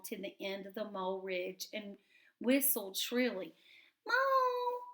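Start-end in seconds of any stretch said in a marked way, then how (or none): 4.1-4.8 high calling shout; high shout across the field. A narrator's reading. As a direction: call him up from the ground. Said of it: "he shouted".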